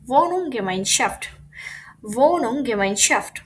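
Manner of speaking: "Wohnung" and "Gemeinschaft" linked into one slow compound; pieces joined up. Shown as a demonstration. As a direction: run "Wohnung" into "Gemeinschaft" as one careful word. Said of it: "কিভাবে ভেঙে ভেঙে পড়বো".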